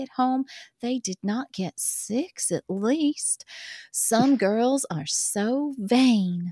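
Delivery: put-on reading a love letter in a light Southern accent. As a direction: read it as a swooning Southern girl. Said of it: "This is Southern".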